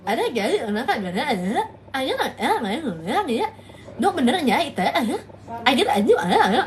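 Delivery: low, fast mock Sundanese babble; imitating a Sundanese speaker rattling away; mock Sundanese chatter. Streamer mimics the Sundanese speaker's rapid chatter. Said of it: "kalau ngomong tuh kayak".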